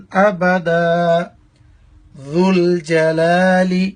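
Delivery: slow, measured Arabic recitation. Shown as a demonstration. Teacher reciting the kalima for students, slow measured recitation. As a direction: recite each phrase slowly and deliberately.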